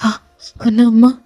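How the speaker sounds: acted tearful confession to mother; mildly anguished son; weeping. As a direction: pour out grief with a touch of tears. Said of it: "செம்மையா அழுதுட்டு இருக்கான்".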